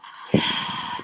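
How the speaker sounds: heavy, voiceless sigh; exasperated sigh. Real, not acted. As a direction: let out a long breath in exasperation. Fed up with the game.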